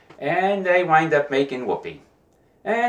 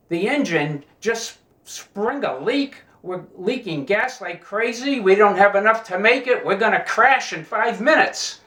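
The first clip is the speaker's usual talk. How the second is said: higher, louder mock panic; panicked pilot; 6 semitones higher, 4 dB louder than usual. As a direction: sound the alarm like a pilot losing the plane. Pilot announces crash panic.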